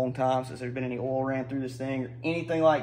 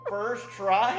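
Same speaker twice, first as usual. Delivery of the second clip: excited; 5 semitones higher than usual. Real, not acted. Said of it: "spit everywhere with excitement".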